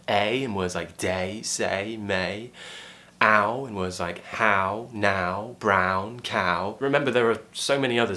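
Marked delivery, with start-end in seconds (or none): 0.1-2.5 full gliding vowel in "day, say, may"; RP A diphthong. Shown as a demonstration. Teacher lists RP examples, clear "A" diphthong. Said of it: "diphthongs create more of a R P British". 3.2-6.8 drawn-out glide in "how, now, brown, cow"; each of "how, now, brown, cow" separate with full glide; RP Ow diphthong. Shown as a demonstration. Teacher lists RP examples, clear "Ow" diphthong. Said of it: "diphthongs create more of a R P British".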